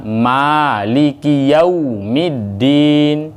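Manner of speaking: yaumiddin with a pure u, never o; slow chanted yaumiddin, round u; correct u sound. Shown as a demonstration. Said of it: "harus u bunyinya". (yaumiddin dibaca dengan bunyi u, bukan o)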